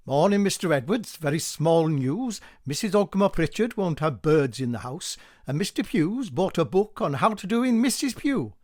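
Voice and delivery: the postman delighting in news; gossipy postman. Acted. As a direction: spill the scandal with relish.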